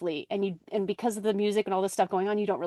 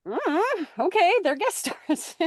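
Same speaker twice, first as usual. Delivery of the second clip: unimpressed; 9 semitones higher than usual. Retold or imitated. Unimpressed by guest names.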